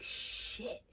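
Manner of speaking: hushed, unvoiced swear; whispered curse. Muttering to herself in quiet church, whispered curse. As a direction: curse under your breath, in a whisper.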